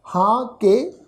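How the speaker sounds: ਹਾਂ said with a nasal vowel, then ਕੇ. Shown as a demonstration. Teacher showing the congregation the nasal ਹਾਂ. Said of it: "ਨਾਸਕੀ tone ਉਚਾਰਨ ਕਰਾਂਗੇ".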